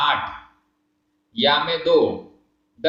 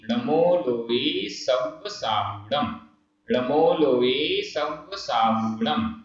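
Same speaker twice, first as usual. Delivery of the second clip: mantra chanted very slowly; slow recitation; much slower than usual. Shown as a demonstration. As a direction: recite each syllable long and even. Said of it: "जैसे मैं उच्चारण कर रहा हूं".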